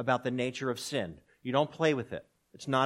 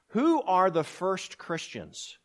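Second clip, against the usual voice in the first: slow question; 5 semitones higher, much slower than usual. Shown as a demonstration. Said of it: "Let me ask you".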